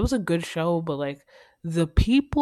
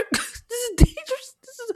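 higher, laughing through this is dangerous. Shown as a demonstration. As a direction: laugh while saying this is dangerous.

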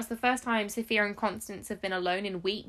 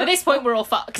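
loud, laughing delivery; laughing through a grim joke; 3 semitones higher, 8 dB louder than usual. Real, not acted. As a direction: crack up through the line. Repeats the same line while laughing.

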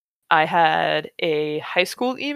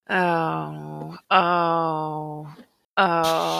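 dreading groan; much slower than usual. Real, not acted. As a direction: groan repeatedly in dread of what comes next. Dreads reading the next part.

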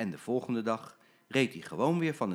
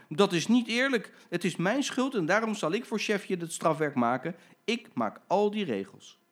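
high, louder, earnest protest; indignant protest; 10 semitones higher, 5 dB louder than usual. Acted. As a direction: stand up for the boy. Jim protests unfairness.

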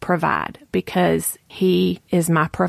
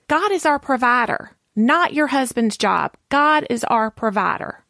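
higher-pitched, insistent retold correction; firm admonishment; 5 semitones higher than usual. Friend reminding her who provides, firm. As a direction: drive the point home as the friend.

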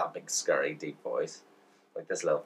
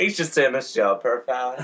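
high, loud doting granny; 7 semitones higher, 6 dB louder than usual. Retold or imitated. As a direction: play a fussy old granny. Mocking grannies, laughing.

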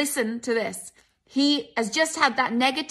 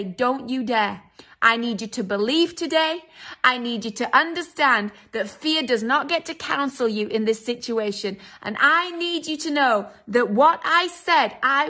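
voice of God. Retold or imitated. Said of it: "the voice of God is cutting through".

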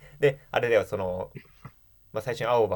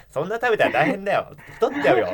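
playful warning; 8 semitones higher, 4 dB louder than usual. Retold or imitated. Teasing reply to Suzu.

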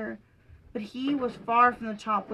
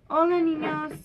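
bright, loud hello to the class; cheerful greeting; 5 semitones higher, 5 dB louder than usual. Acted. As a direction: greet them with gusto. Greeting children in character.

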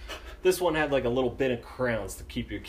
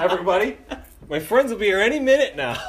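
raised, higher mock-hopeful voice; drunken announcement; 8 semitones higher, 7 dB louder, faster than usual. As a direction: tell the whole room, laughing slightly. Drunk self announces to everyone.

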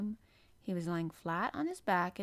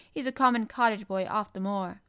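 louder, scornful sneer; ferocious sneer; 7 dB louder than usual. A narrator's reading. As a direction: sneer at the boy. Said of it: "Colin sneered ferociously".

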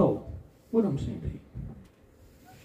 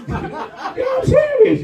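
shout; 6 dB louder, much slower than usual. Real, not acted. Preacher insisting mid-sermon.

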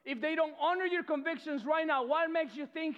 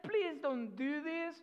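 mild plea; 3 semitones higher, slower than usual. Retold or imitated. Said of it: "She said".

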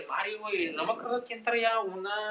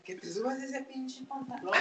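angry mother; 7 semitones higher, 5 dB quieter than usual. Retold or imitated. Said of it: "Y dice".

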